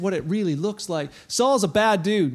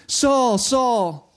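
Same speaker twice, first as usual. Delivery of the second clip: calling out; 4 semitones higher, 6 dB louder than usual. Retold or imitated. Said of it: "There's no bold".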